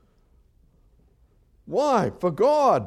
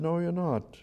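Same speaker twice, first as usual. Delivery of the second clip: gentle father; 3 semitones lower, 4 dB quieter than usual. Retold or imitated. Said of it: "And the father said".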